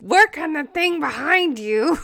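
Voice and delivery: odd put-on voice. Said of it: "I don't know what my voice is doing".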